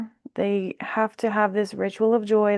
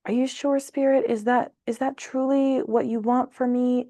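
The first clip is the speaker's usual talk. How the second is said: doubtful person; 4 semitones higher than usual. Retold or imitated. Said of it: "this person is like".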